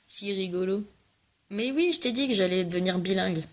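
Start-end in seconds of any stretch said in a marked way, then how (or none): 0.1-0.8 said through a soft laugh; laughing repeat. Real, not acted. Teasing her friend back, laughing softly. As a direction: let the laugh carry the words.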